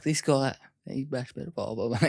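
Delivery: high, excited gossip about the new guy; mock-impressed inmate talking him up; hyped-up inmate quote. Inmate hyping the new arrival to others, high and excited.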